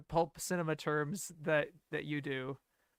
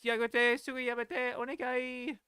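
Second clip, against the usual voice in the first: higher-pitched string of imitated pleas; lightly whiny imitation, pitch raised; mock pleading; 7 semitones higher than usual. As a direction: rattle off a mock anime-heroine plea. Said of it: "not just".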